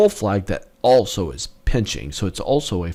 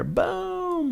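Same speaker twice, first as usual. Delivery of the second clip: boom; 6 dB quieter than usual. Real, not acted. Chart spikes upward.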